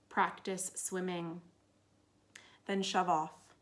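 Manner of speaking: spare, measured recital, pausing after each instruction; poem reading. Acted. Poet reads How to Build a Boat to listeners, measured recital. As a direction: let each short line stand alone.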